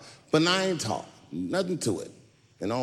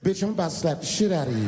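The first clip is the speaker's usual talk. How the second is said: fast, smooth mock-sweet threat; sweet pimp voice; faster than usual. Comedian threatening the woman sweetly like a pimp. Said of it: "I said softly, sweetly, like a pimp might say".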